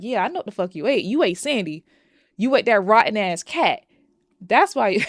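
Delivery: building from fast sarcastic to loud with a laugh; rising to a loud laughing jab; mock accusation. Reacting to Nikki's excuse, building mock accusation.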